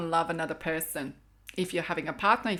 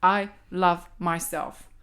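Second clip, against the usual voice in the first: affirmation demo. Shown as a demonstration. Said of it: "and I say".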